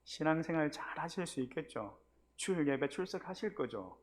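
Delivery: soft, coaxing questions; gentle coaxing. Retold or imitated. Pastor gently urging the deacon to attend, soft coaxing. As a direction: nudge him kindly toward church. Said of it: "조근조근하게 또 이렇게 타이르면서".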